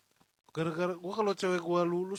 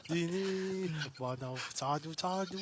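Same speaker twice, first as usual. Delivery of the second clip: put-on Russian accent; slower than usual. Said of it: "gayanya aja, aksen-aksennya".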